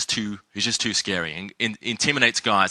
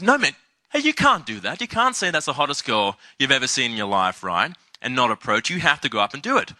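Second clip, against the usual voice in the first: insistent wingman; 3 semitones higher than usual. Retold or imitated. Wingman pushing him to approach.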